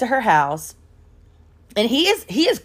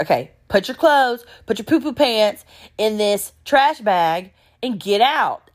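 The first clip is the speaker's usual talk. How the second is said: emphatic, fed-up command; imitated firm order; 3 semitones higher than usual. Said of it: "she's like".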